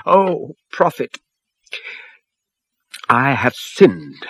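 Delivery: slow, halting plea, voice cracking; a worried man confessing to the prophet, voice breaking. A narrator's reading. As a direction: falter through the confession. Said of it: "his voice broke and faltered".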